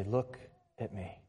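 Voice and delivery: soft, low, tender appeal; gentle Jesus. Retold or imitated. Jesus lifts a grieving woman's chin, tender and hushed. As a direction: drop the volume and invite softly. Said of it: "used it to gently grab Mary's chin and say".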